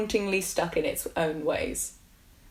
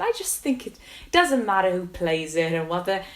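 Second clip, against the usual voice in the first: Neil; 4 dB louder than usual. Retold or imitated. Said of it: "That's a really bad Welsh accent".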